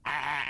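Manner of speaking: imitated animal bleat from the throat; throaty alpaca call; mock alpaca noise. Comedian doing an Arabic nursery-rhyme animal, throaty bleat. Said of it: "you get a sore throat".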